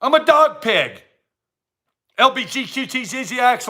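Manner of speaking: mock proud claim. Mocking made-up genders, proud silly claim. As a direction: announce it like a proud identity.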